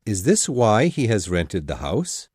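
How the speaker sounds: low, dry teasing husband; mock-innocent husband in a deep voice; joking. A narrator's reading. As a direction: tease her with a deadpan question. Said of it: "her husband asked jokingly".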